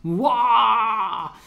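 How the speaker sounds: squealing high and drawn out, then chanting; bursting with hype over the new bounties; overexcited. Real, not acted. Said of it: "je suis surexcité comme ça".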